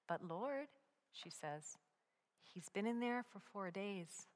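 softly, carefully, as if near a wild animal; cautious and soft. Acted. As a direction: approach him gently and warily. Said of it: "Slowly, cautiously".

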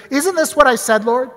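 a touch of an accusing prayer; complaining at God. Retold or imitated. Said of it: "starts kinda shouting at God".

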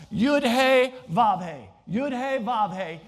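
Yud-He Vav-He sounded out slowly, letter by letter; Hebrew letter names. Shown as a demonstration. Preacher attempting Hebrew for his congregation, Yud-He Vav-He sounded out slowly. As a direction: pronounce Yud-He Vav-He as four Hebrew letters in a Southern accent. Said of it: "as best as I can in my Southern Virginia accent".

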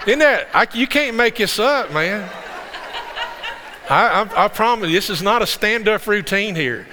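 high, laughing protest; real amusement pushing the voice up high; laughing disbelief. Real, not acted. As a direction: swear it's true while cracking up. Cracking up over raccoon story.

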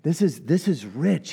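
ordinary talk

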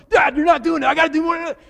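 put-on high, loud panicky child's voice; panicked kid. Son frightened in the river, high panicky whine. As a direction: whine like a scared little boy in water.

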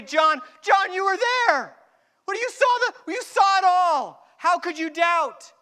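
a disbelieving cry to John; exasperated plea. Pretend.

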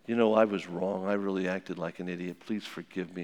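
contrite husband. Retold or imitated. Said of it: "and John says".

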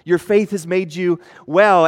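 slow, tender words to a healed woman; affectionate. Retold or imitated. Jesus to the healed woman, tender and slow. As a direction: speak it gently, like to a little child. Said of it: "he uses a term of affection for her".

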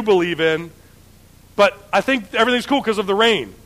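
lightly voiced, upbeat naive husband; a breezy, naive husband chattering; naive Ahab. Ahab cheerfully telling his wife Jezebel the news, upbeat and naive.

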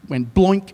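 a bloink like an axe hitting water; imitated splash noise. Shown as a demonstration. Preacher to congregation, acting out the splash. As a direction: mimic the plop of an axe sinking. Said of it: "that's the noise something makes".

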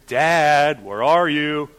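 put-on drawn-out child's searching call; playful calling. Toddler running down the hall after dad, playfully calling. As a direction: lightly imitate a playful little seeker. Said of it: "and playfully, right?".

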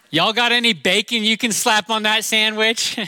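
hammed-up Southern accent to embarrass the kids; Southern drawl put on. Southern accent ordering at a drive-through to embarrass the kids. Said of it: "I can turn my Southern on and off".

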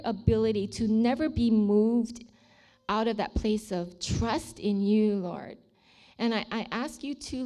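earnest blessing prayed over a congregation; heartfelt public prayer, stretching key words; spoken prayer. Real, not acted. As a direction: pray fervently in measured, halting phrases. Prays a blessing aloud.

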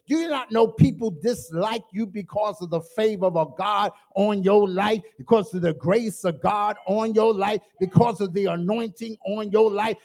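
rising preacher's cadence; preaching build. Acted. Preacher pressing the point to the church, building cadence. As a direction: stack the lines like a preacher building.

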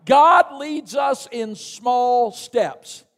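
slow shouted sermon line; slow preached shout. Real, not acted. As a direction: drive the point home to the church. Preacher shouting key point.

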